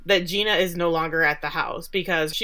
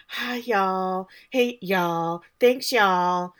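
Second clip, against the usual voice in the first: lightly imitated Southern y'all greetings; rehearsed Southern accent, lightly done; practiced Southern accent; much slower than usual. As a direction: try out a mild Southern twang, one greeting at a time. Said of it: "practicing her accent in the mirror".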